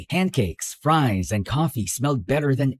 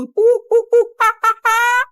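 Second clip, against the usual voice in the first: very high, loud hooting taunt; playful high-pitched jeering; mocking hoots; 6 dB louder than usual. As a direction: hoot like a silly monkey to tease her. Taunting babble to drown rant.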